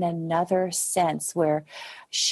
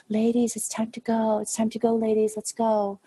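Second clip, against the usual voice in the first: put-on raised, hesitant little voice calling the girls; timid young captain; 6 semitones higher than usual. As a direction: politely try to get the dancers' attention, unsure. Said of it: "she was very quiet".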